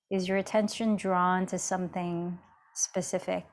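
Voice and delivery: unhurried meditation guide with long pauses; even, measured mindfulness guidance; guided meditation. Acted. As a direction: gently lead an inward check-in, leaving space between phrases.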